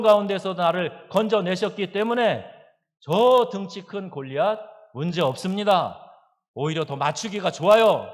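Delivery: loud, high, ringing conviction; confident declaration. Retold or imitated. Preacher voicing David's confidence before Goliath, loud bold declaration. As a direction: proclaim it boldly, punching each phrase. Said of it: "그런 마음을 갖는".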